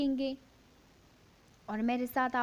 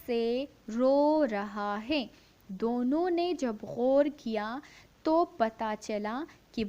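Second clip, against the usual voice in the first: slow, clear story reading for a class; measured classroom read-aloud; 4 dB louder, slower than usual. Shown as a demonstration. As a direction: read it out word by word for the children. Teacher reads story aloud.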